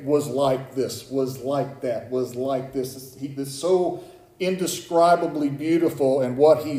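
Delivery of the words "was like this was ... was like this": slow, each "was like" weighed out; slow stressed quote. Shown as a demonstration. Pastor slowly spells out the scripture's "was like" wording. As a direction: read "Was like this, was like that" slowly, leaning on was. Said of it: "Notice that all those say".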